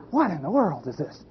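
soft, baffled aside; puzzled onlooker. Retold or imitated. Crowd watching the gorilla, puzzled and hushed. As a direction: wonder quietly as a bemused crowd.

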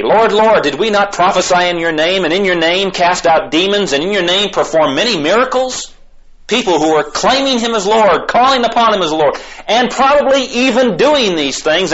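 high, insistent preaching voice; impassioned preaching. Real, not acted. Preacher on those who claim Him as Lord, impassioned.

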